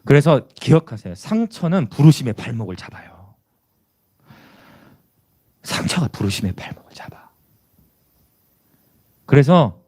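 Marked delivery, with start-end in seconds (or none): 5.6-7.3 low, hushed repeat for weight; soft, grave whispering. Real, not acted. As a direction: drop to a whisper to let it sink in. Repeats key line in a whisper.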